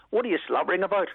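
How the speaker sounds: put-on high-pitched voice with Belfast accent. Retelling a neighbour's reply on a beach in Oman: Belfast accent. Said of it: "this Belfast voice came back to me".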